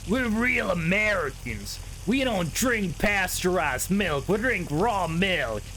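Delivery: slow, lightly voiced smug American; mocking raw milk Americans. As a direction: mimic a slightly smug raw-milk guy.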